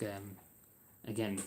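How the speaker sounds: drowsy, half asleep voice; sleepy, words dragging a little; nodding off. Real, not acted. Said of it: "I'm half asleep".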